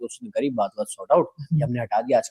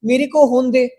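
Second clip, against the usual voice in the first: pained yell; 7 semitones higher, 5 dB louder than usual. Retold or imitated. पिटते हुए cameraman पर चिल्लाना.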